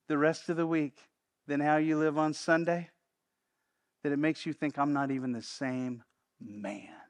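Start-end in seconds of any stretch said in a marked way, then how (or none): 4.8-7.0 slow, soft confessing whisper; ashamed whisper. Acted. Churchgoer admitting to himself his double life, whispered. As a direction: whisper it like a secret you fear. Inner thought of ashamed listener.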